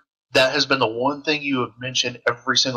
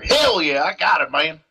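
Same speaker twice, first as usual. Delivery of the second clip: southern redneck reply; 3 semitones higher than usual. Pretend. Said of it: "call her over the radio".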